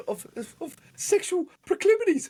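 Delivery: high Australian politician voice; mock Australian accent; Australian politician impression. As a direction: ham up a blustering Aussie politician. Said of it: "he's like".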